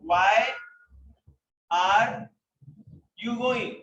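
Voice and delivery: long pauses between "Why", "are" and "you going"; "Why" and "are" each set apart by a pause; word by word. Shown as a demonstration. Teacher repeats it word by word.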